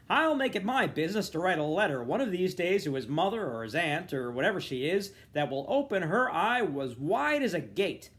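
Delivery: loud, high and furious over wheel noise; crying out in anger. A narrator's reading. Father railing against Mulligan over the wheels, loud furious cry. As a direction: rage at Mulligan, shouting over the clatter. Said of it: "he cried above the clatter of the wheels".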